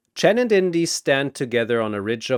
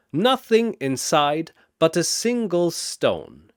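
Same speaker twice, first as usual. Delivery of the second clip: higher, louder storyteller voice; riddle telling; 5 semitones higher, 3 dB louder than usual. Acted. Chen posing the riddle to Shazam, mysterious. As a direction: pose it with mystery.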